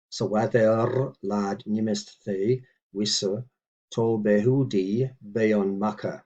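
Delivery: slow, deliberate word-by-word recitation; measured teaching read; careful Old English reading. Shown as a demonstration. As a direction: read each word out for the learner. Reads Old English model sentence.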